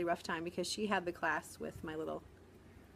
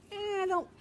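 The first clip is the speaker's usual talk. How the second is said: mock hesitation; 12 semitones higher than usual. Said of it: "but I'm like".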